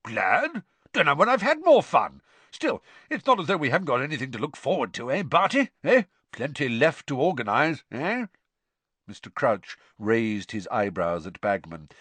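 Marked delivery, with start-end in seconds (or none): 0.0-0.6 shocked. A narrator's reading. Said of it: "looked shocked". 0.9-8.3 loud, hearty sports official; jovial Bagman. A narrator's reading.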